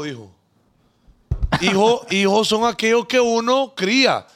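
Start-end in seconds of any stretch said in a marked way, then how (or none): 1.6-4.3 slow, higher, lightly amused quote; imitating half-laughing woman. Irina defending raising children not one's own, half laughing. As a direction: let a small laugh into her argument. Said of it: "Y ella medio riéndose".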